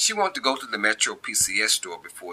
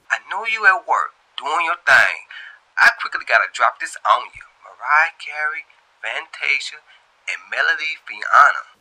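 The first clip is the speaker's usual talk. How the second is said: louder, a bit higher, hurried; excited gossip; 6 semitones higher, 5 dB louder than usual. Acted. Tia rushing news to Shantae, louder and hurried. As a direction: rush out the big news.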